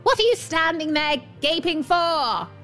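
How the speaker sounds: high-pitched irate demand; angry dwarf scream. A narrator's reading. Dwarf catching the girls staring at his stones, angry scream. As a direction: snap it out high, as a storybook scream. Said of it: "screamed the dwarf".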